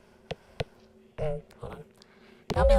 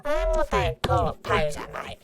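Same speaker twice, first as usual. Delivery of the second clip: hammed-up Australian accent, higher and louder; mock Australian accent; 11 semitones higher, 3 dB louder than usual. Teasing Australians, a hammed-up Australian accent. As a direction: ham up an Australian accent on mate. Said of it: "That feels racist".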